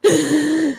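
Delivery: high real sob; crying sob. Real, not acted. Upset over the car, sobbing. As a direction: let out a long, high sob. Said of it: "'cause I'm crying".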